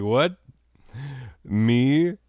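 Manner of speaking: high, rising incredulous questions; mock surprise. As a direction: act taken aback at being singled out. Acts out startled reply to police.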